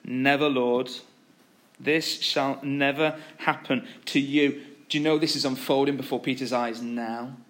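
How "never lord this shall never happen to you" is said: restrained, slow quoted rebuke; solemn refusal at an ordinary pitch; measured rebuke. Acted. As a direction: read the objection firmly, taking your time. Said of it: "he began to rebuke him".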